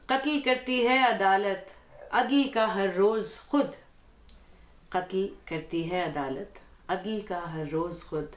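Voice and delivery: measured Urdu poetry reading; ghazal recitation. Acted. Guest reads the host's ghazal before him, poetic recitation. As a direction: recite the couplet with deliberate phrasing.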